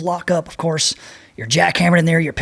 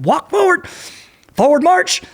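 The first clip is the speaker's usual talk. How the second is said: much higher, called-out marching order; drill command; 14 semitones higher than usual. Retold or imitated. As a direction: bark it like a drill instructor. Instructors marching them into surf.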